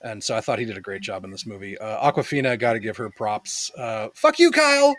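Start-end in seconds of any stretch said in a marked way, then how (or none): 4.1-4.9 loud, high mock outburst; mock furious yell. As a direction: yell it like a movie insult. Quoting a movie line shouted.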